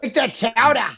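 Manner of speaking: mock Boston accent, vowels stretched wide. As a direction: put on a thick Boston accent. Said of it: "the unsexiest is probably Boston".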